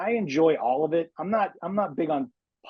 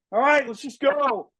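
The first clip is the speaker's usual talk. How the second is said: high, slow hammed-up marine cry; Bill Paxton as Hudson; 11 semitones higher, 3 dB louder than usual. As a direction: draw it out high like a fired-up movie soldier. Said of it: "but Paxton, uh, be able to just".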